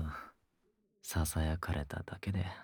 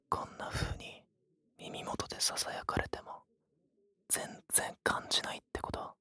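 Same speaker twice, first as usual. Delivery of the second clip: whispering; 4 semitones higher, 6 dB quieter than usual. Acted. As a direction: close breathy whisper in the ear.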